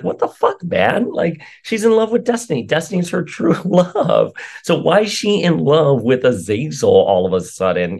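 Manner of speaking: high-pitched disbelieving outburst; incredulous. Retold or imitated. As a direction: squeak it out in total disbelief. Fans' baffled reaction voiced as a quote.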